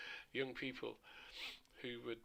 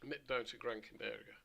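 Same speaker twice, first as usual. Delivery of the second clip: slightly throaty, voice going; tired, hoarse throat; 3 dB quieter than usual. Real, not acted. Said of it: "I'm losing my voice a bit here. I'm getting a bit throaty".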